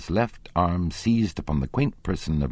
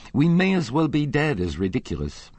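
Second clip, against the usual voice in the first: high-pitched dismay; alarmed protest; 12 semitones higher, 3 dB louder than usual. Acted. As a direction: wail it high at the thought of ridicule. Managers alarmed at facing public ridicule.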